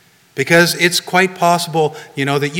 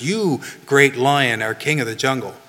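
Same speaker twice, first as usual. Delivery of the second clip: cowering bear. Acted. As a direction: shrink back and answer the lion timidly. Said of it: "the bear even cowers and says".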